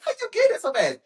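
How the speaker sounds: high, amazed question; surprised question. Retold or imitated. To brother, stunned at how fast he ran. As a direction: gasp out the question in disbelief.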